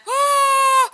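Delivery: very high, loud, drawn-out mock shriek; shocked outcry. Retelling reaction to the man's fit, shrieked shock. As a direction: wail it out in exaggerated shock. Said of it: "And I'm like".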